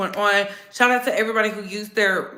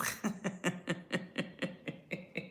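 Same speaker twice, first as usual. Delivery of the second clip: long, quiet, wheezy laugh; real laugh; 4 semitones lower, 13 dB quieter than usual. Real, not acted. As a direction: laugh in soft, breathy pulses. Laughing at own quip.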